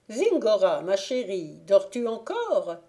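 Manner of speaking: calling out. Acted. Fairy calls out to the girl.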